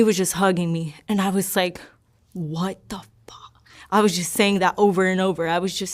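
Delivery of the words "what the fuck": whispered, slow, barely voiced retelling; whispered swear. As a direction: whisper the curse, trying to keep it clean. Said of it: "trying to be clean".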